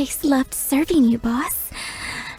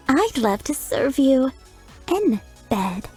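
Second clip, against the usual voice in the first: put-on teasing French-accented innuendo with a pause before in bed; suggestive; 3 semitones lower than usual. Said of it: "suggestive retake after laugh".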